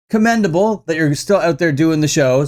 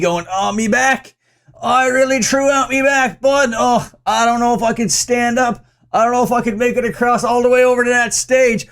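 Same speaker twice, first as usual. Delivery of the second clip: higher-pitched mock Irish complaining; put-on Irish accent; 4 semitones higher than usual. Host imagines injured rapper hobbling around, hammy Irish accent. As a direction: play the injured rocker as a woeful Irishman. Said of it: "I don't know why I made him Irish".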